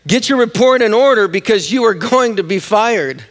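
emphatic, high-pitched mock reprimand; acted angry boss. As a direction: play the boss laying down an ultimatum. Acts boss threatening to fire manager.

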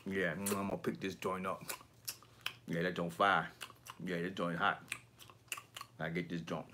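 lightly imitated quiet collector, low-pitched; soft-talker impression. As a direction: mimic a soft, mumbly video host. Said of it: "This is how he fucking talked".

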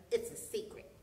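soft, voiceless whisper; hushed, confiding hare. A narrator's reading. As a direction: whisper it like a secret. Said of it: "whispered Hare".

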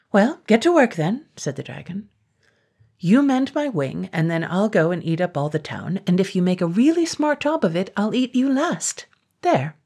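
high, bossy dragon; cheerfully menacing dragon. Acted. Dragon speaking to John.

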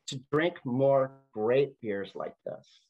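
slow, matter-of-fact retold answer; deadpan serious. Man answering a question about his goals, deadpan serious. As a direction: say it slowly, in all seriousness. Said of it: "He was serious".

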